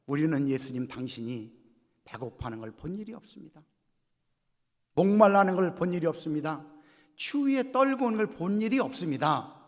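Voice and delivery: building to loud, high-pitched denial; acted uproar of protest. The condemned denying they saw Jesus in need, escalating protest. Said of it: "막 또 난리가 났어요".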